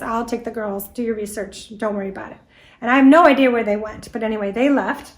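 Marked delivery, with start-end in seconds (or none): 0.0-2.4 soft, sweetly reassuring offer; sweet friend. Retold or imitated. Friend offers to take the girls, softly sweet. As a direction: gently soothe her, softer. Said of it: "very sweetly says".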